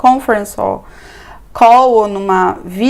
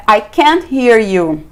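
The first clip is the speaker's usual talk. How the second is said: slow model phrase; slower than usual. Shown as a demonstration. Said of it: "Você pode dizer".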